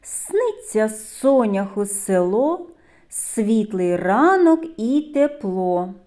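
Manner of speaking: slow, measured verse reading; poem recital. Acted. Teacher reading a sound rhyme to children, slow recital. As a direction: recite the rhyme slowly, line by line.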